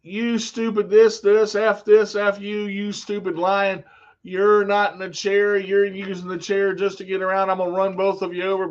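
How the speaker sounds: mock rant, punching the first words; half-voiced angry tirade; retold angry yelling. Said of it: "she's yelling out the front of the car".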